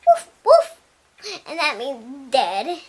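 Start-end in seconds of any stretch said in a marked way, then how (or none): 0.1-0.8 much higher, loud yappy barks; imitated dog woofs; dog barking. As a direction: bark it like an excited little dog. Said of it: "she was like".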